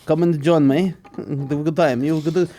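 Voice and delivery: a hint of a welcoming café host; lightly voiced café regular. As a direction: beckon a tourist over, a little hammed up. Acts out beckoning Athens café regular.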